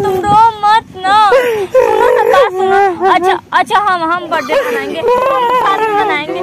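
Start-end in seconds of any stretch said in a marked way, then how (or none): 0.0-3.1 mock sob breaking into laughter; laugh-cry through the pleading, louder; crying while laughing. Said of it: "तुमको देख के हमको भी रोना आ रहा है". (रोते-हंसते हुए)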